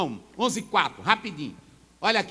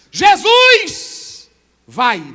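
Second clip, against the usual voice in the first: drawn out, higher and much louder; preached proclamation; 9 semitones higher, 14 dB louder, much slower than usual. Acted. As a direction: stretch it out like a great announcement. Sermon climax, drawn out.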